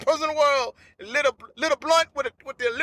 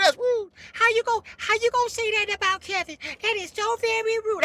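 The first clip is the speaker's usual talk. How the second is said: higher, prissy scolding voice; offended onlookers; 8 semitones higher than usual. Retold or imitated. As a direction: play the scandalised crowd, raised pitch. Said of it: "And people said".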